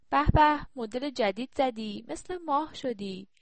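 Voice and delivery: a loud, high burst of delight, then slow; delighted praise. Acted. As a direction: gush over the new haircut. Grandmother admires granddaughter's new hair.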